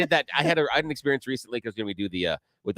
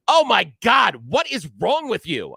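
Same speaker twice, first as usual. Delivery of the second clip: high, loud "what is wrong with you"; loud exasperated outburst; 9 semitones higher, 6 dB louder, slower than usual. Retold or imitated. Daughter loudly scolding her dad, high and exasperated. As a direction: teenager blurting it out loudly. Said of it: "turns to me very loudly and goes".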